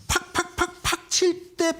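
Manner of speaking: high, punchy "팍팍팍팍"; mock spike noise. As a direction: hit "팍팍팍팍" like sharp jabs. Imitating a sharp price spike.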